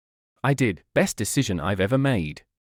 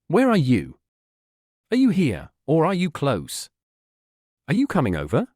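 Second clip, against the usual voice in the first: eager, rapid questions, pitched up; bubbling over with excitement; excited child; 4 semitones higher, 3 dB louder than usual. A narrator's reading. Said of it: "Alandra spoke rapidly".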